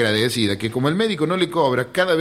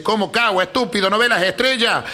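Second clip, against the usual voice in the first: mildly acted indignant officer, pitched up; higher-voiced mock outrage; puffed-up lieutenant; 5 semitones higher than usual. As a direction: scold the soldier as an offended superior. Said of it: "se volvió inflado el teniente".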